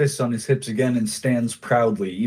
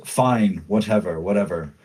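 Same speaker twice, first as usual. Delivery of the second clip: scoffing dismissal. Acted. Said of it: "he finally just scoffs and shrugs".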